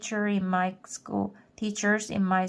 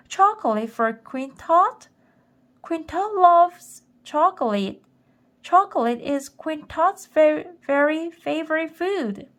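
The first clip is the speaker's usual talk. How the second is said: put-on high, loud, giddy childlike glee; delighted like a kid; 8 semitones higher, 5 dB louder than usual. A narrator's reading. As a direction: squeal it like a kid promised candy. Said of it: "She seemed delighted, like a little kid".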